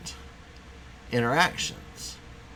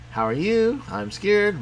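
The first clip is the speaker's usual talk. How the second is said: higher, louder cartoon alien voice; voicing the alien; 8 semitones higher, 3 dB louder, slower than usual. Teacher playing the alien's lines for class, high and nervous.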